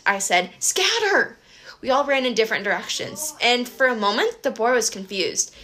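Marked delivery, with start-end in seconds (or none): 0.6-1.4 shouted order. A narrator's reading.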